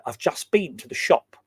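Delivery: "I've just been to the shop" with stress on "been", said the English way; lightly voiced English accent, stress on "been". Shown as a demonstration. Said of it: "a very English way of saying".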